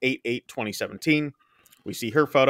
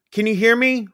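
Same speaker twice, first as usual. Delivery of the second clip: higher, worried operator voice; operator calling out; 9 semitones higher, 3 dB louder than usual. Retold or imitated. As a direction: call down the line. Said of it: "from the phone operator".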